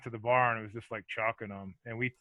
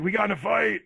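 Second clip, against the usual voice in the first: sheepish son; 8 semitones higher, 3 dB louder than usual. Retold or imitated. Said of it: "he's like".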